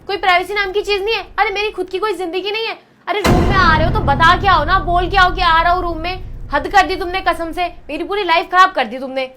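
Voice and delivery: loud, heated telling-off; angry scolding. Acted. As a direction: scold him for barging in. Wife angrily scolds husband. (पति पर गुस्से से चिल्लाती पत्नी)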